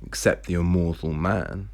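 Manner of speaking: measured storytelling, characters lightly voiced; story narration. A narrator's reading. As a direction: read the novel aloud with lightly acted dialogue. Reads novel manuscript aloud.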